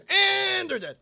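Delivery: high, loud laugh through words. Real, not acted. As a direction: crack up while saying it. Laughing at enemies dying.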